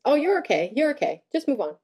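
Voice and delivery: lightly voiced parent brushing off a hurt child; imitated dismissive parent. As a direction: hurry the kid along, a hint of a breezy parent.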